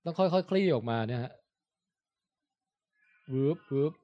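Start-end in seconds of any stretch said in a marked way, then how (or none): 3.3-3.9 imitated whoosh. Shown as a demonstration. Host showing how the light sail unfurls, soft imitated whooshes. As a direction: voice the sail gently swishing open.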